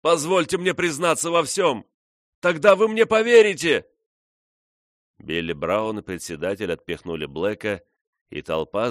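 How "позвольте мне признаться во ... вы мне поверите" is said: high desperate shouting, pleading to confess; loud cry. A narrator's reading. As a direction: cry out to the crowd, begging to be heard. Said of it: "громко закричал".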